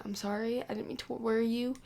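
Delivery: hushed apology fading to a whisper; soft pleading. Retold or imitated. Husband sends his lover home, hushed. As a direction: quietly beg her to leave. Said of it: "And he said".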